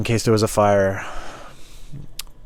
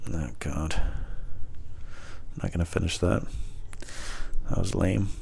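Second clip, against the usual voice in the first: whispered aside; 5 semitones lower, 12 dB quieter, much slower than usual. Real, not acted. Giving up mid joke.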